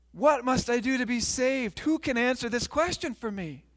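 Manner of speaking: mildly desperate, lifted voice; distressed pleading. Acted. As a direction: plead with a touch of anguish. Burdened man pleads with his family.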